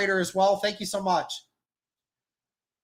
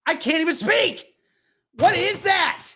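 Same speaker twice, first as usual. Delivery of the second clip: stunned disbelief; 7 semitones higher than usual. Real, not acted. Stunned by bad call.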